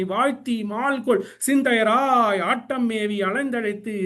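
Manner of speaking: measured Tamil verse recital, line by line; verse recitation. Acted. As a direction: recite sacred verse in rhythmic phrases.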